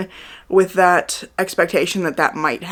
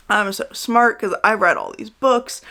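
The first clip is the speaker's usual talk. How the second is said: higher, slow mocking brag; mock smug; 4 semitones higher than usual. Reviewer mocking a bookish main character, smug and condescending. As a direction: imitate a condescending know-it-all, drawn out. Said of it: "is all like".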